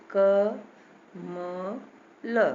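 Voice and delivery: क, म, ल as separate sounds with a short "a"; short vowel in each letter. Shown as a demonstration. Teacher showing the hidden short vowel, letter by letter. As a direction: sound out क, म, ल slowly, pausing between. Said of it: "सब में छोटा आ निकल रहा है".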